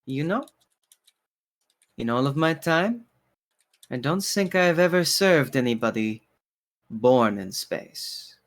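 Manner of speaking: lightly voiced polite barkeeper in measured phrases; courteous bartender, musing. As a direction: muse aloud as the bartender, pausing between phrases. Game master voices bartender Pierre.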